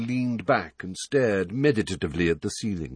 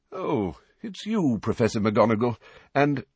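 Dumbledore greeting; 3 semitones higher than usual. Acted. Headmaster greets McGonagall at the door, lightly voiced old man.

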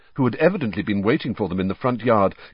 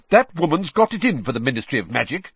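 furious; 6 semitones higher, 3 dB louder, faster than usual. Acted. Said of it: "said Percy furiously".

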